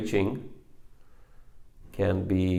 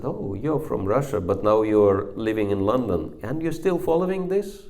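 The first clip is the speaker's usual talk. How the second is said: mocking young man's surprise; 4 semitones higher, 3 dB louder than usual. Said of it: "He said".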